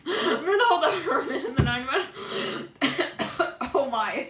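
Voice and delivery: high, loud words through real laughter; laughing. Real, not acted. Reader cracking up at her own wordsmith remark, laughing. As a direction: crack up while talking, pitch shooting up.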